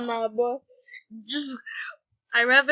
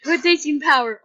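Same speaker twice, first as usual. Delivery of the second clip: power voice; 3 semitones higher, 5 dB louder than usual. Acted. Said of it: "it's my power voice".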